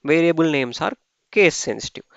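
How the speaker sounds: reading rule text aloud very slowly, word by word; slow dictation read. Acted. Teacher reading the slide rules slowly to students. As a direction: spell it out slowly for the class.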